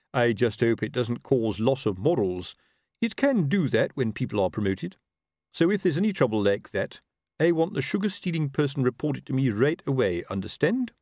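lightly voiced commanding officer, pitched a little up; officer instructing a corporal. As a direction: give orders as the superior officer.

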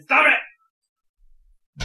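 high, loud acted scream; screamed command. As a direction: scream it sharply at the fish. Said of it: "I scream in Aquan".

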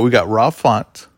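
Rob sounding like raw; slurred Rob, almost raw; mouth not working right. Real, not acted. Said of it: "keeps sounding like you're saying raw".

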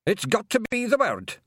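high, desperate Scottish yell. A narrator's reading. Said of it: "yelled Rob Anybody desperately".

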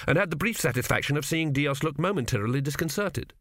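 usual speaking voice

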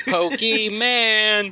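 Pokemon drawn out as "POH-kee-MAN"; high, slow goofy "man" ending on Pokemon; silly mispronunciation. Pretend. Joking mispronunciation after pronunciation debate.

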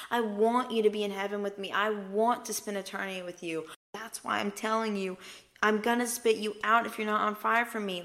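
heartfelt, emphatic plea; earnest pleading. Retold or imitated. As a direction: implore them with rising urgency. Voices Jesus lovingly begging people.

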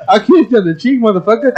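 said through laughter; laughing. Real, not acted. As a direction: laugh through the words while teasing. Joking, laughing at friends.

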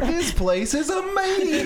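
mimicking Jake. S2 mimics Jake's reaction.

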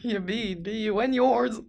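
robotic electronic toy voice; speak and play toy voice. Acted. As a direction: sound like an eighties talking toy. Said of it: "What was that?".

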